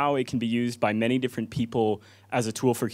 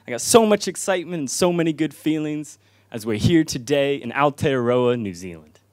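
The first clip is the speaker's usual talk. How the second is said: spoken-word poem; 2 semitones higher than usual. Real, not acted. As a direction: recite it to the crowd, then ease down. Opens his performed poem.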